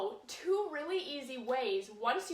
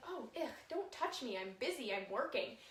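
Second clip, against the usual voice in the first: annoyed dog; 7 dB quieter than usual. Retold or imitated. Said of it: "and their dog is like".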